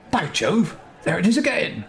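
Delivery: a touch of excited discovery; mild surprised exclamation. Acted. Character exclaims.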